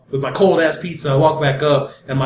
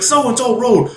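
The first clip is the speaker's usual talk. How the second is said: higher, impatient repetition; insistent repeat; 4 semitones higher, much slower than usual. Retold or imitated. Cop repeating directions after a "What?", insistent. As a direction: repeat it as if to someone playing stupid.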